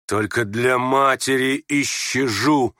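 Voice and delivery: slow, theatrical declaration; tragic. Acted. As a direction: stretch the words with tragic weight. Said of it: "трагически произнёс Ганя". (трагически, протяжно)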